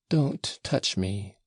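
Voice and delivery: slow, faltering plea; imploring, faltering. Acted. Grushenka pleads with Mitya, imploring and faltering. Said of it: "she faltered in an imploring voice".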